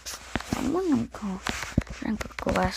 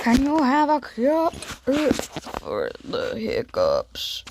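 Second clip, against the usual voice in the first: slow, loud character asking; drawn-out pleading figure; 3 semitones higher, 5 dB louder, slower than usual. Pretend. Asks other figure, slow.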